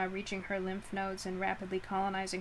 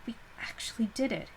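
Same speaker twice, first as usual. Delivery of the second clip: unvoiced awed whisper; 3 semitones higher, faster than usual. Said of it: "she whispered into the country air".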